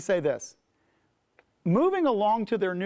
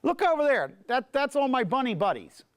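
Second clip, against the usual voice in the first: excited rabbit; 7 semitones higher than usual. Acted. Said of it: "goes into the other rabbits and says".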